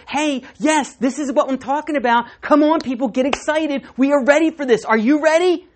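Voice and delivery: rally the people, full of joy; excited John. Retold or imitated. John the Baptist hyping the crowd for Jesus, excited. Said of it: "That's what John's doing".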